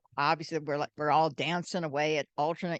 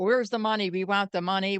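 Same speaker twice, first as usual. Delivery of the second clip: louder, tough gangster demand; mock thug demand; 2 semitones higher, 5 dB louder than usual. Retelling the mafia men at the dance, mock thug demand. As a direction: growl it like a mobster shaking them down.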